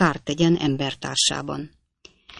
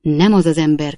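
crying out; 5 dB louder than usual. Acted. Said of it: "kiáltotta a pocakos úr is".

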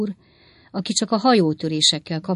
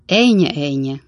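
moved, comforting and a little louder; deeply moved; 5 dB louder than usual. Acted. Pickwick comforts weeping Jingle, deeply moved. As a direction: soothe the sobbing man. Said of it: "mondta Pickwick úr nagyon megindultan".

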